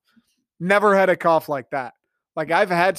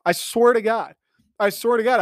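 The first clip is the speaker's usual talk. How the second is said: insistent; 5 semitones higher than usual. Retold or imitated.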